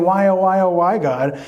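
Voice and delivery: a light mock whine, imitating a complaining man; mock whining. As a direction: play Job's whining without overdoing it. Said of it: "You're sitting there whining".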